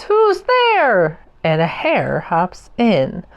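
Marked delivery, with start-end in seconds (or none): 0.0-1.2 high, startled little mouse voice; a small mouse calling into the dark; mouse cries out. A narrator's reading. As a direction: call out nervously like a tiny mouse. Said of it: "Mouse cries".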